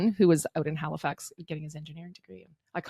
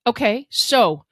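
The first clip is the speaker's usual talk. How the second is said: louder, pressing questions; worried lecture; 6 dB louder than usual. Retold or imitated. Oldest son warning his mom, pressing and louder. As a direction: grill her with concern.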